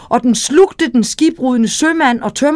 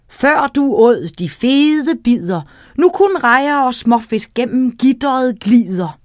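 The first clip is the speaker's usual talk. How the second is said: teasing rhyme. Acted. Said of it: "sagde han dette drillevers".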